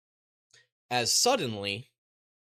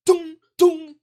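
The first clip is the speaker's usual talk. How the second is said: high loud dong sound effect; ping the bullet impacts; imitated bullet hits; 10 dB louder than usual.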